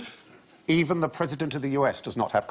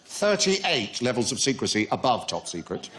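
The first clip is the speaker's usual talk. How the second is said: a hint of a UFO crank revealing secrets; conspiracy theorist voice. To the panel, a mild mock conspiracy theorist voice. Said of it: "Why are you talking like this?".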